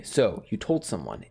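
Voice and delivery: understated imitation of a scary voice; retold scary voice. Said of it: "It was a very scary voice".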